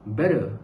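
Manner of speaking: low American "better"; American-style pronunciation. Shown as a demonstration. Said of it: "I said better".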